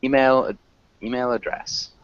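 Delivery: "Email" pushed on "mail", then "email address" eased off; stress on second syllable. Shown as a demonstration. Teacher modelling "Email, email address" for the class. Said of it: "we wanna emphasize the second syllable".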